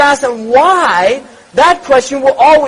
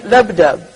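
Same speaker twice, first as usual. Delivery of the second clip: heartbeat sound; 5 semitones lower than usual. Shown as a demonstration. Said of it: "they call it labdab".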